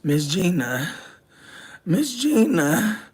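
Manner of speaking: calling her name in a rising whine; mock whine. Attached to a patient, calling for Gina in a mock whine. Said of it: "I'm over here like".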